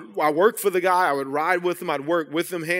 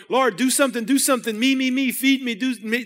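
higher-pitched whiny begging, me me me; mock selfish prayer; 7 semitones higher than usual. Pastor mocking his old demanding prayers, whiny. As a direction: lampoon your own self-centred praying. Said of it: "I was like".

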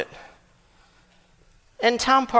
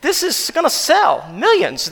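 light put-on voice, a touch incredulous; half-laughing disbelief, lightly voiced; mock amazed aside; 8 semitones higher, 3 dB louder than usual. Telling congregation how he and Kim laughed, mock amazed. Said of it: "just started laughing".

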